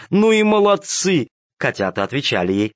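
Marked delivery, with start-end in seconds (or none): 0.1-1.3 delighted praise. A narrator's reading. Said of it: "повторяла она".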